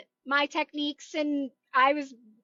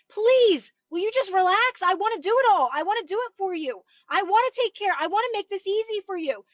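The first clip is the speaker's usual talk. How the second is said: eager, imploring cosmic helper; pleading universe; 5 semitones higher than usual. Pretend. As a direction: beg the listener to let you help. Universe voiced begging listener.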